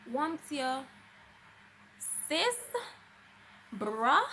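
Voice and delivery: friend calling out. Retold or imitated. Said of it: "she was all like".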